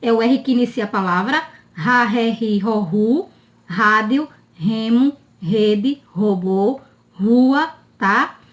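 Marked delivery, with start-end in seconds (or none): 1.7-7.7 word-initial R said like H, as in "rádio" as HA-dio; breathy strong R opening "rua" and each item. Shown as a demonstration. Teacher reviewing the initial R, strong H-like sound. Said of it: "Som inicial é um som forte".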